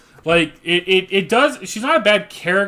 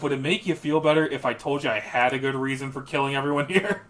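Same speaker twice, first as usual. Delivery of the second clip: snarky; 4 semitones lower, 6 dB quieter than usual. Retold or imitated. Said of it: "just the snarkiness of".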